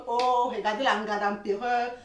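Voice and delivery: slow, drawn-out jeer; mock pointing-out, unhurried; mocking friends. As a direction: imitate friends making fun. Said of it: "tes amis se moquent de moi".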